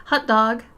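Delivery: "hot" said like "hut"; "hut dog" pronunciation. Shown as a demonstration. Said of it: "H U T".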